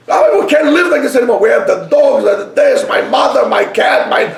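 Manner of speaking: high, loud, rushed listing of woes; frantic complaint. Acted. Couple loudly listing the animals to the rabbi, high and rushed. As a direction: pour out every complaint at once.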